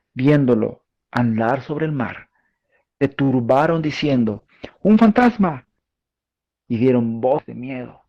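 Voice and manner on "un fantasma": high, loud cry of a ghost sighting; frightened cry. Acted. Disciples crying out in terror at a ghost. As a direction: scream it out like terrified fishermen.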